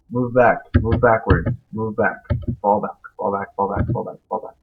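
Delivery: urgent loud retreat orders; shouting orders over battle. Real, not acted. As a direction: bark retreat commands at the troops.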